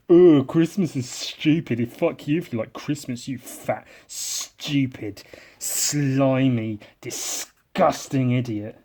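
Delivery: sneering mock put-down; snide snarl. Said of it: "snidely snarl at it all and say".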